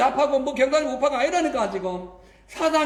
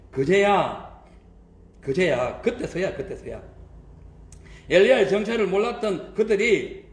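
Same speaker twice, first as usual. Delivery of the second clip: lower-pitched, measured Bible reading; scripture reading; 6 semitones lower than usual. Acted. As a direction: read the verse out in a lowered voice, phrase by phrase. Reads a Bible verse aloud. (낮은 목소리로 또박또박 성경 봉독)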